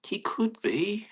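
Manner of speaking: whisper to dog. Real, not acted. Whispering about his dog.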